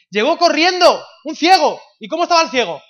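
high, loud preacher's emphasis; full-force preaching. Real, not acted. Preacher telling the church about the blind man, full force. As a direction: drive each phrase at the crowd.

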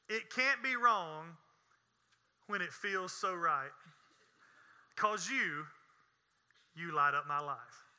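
slow, lightly dramatic lyric recital; recited song stanza. Retold or imitated. Preacher reads the song's closing stanza to church, mock-solemn recital. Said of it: "here's the closing stanza".

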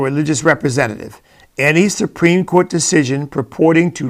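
formal legal reading. Shown as a demonstration. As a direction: lightly read legal text. Reads amendment text aloud.

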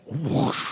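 rushing whoosh of air; imitated whoosh. Preacher showing a church network collapsing, imitated whoosh. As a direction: whoosh like something being swept away.

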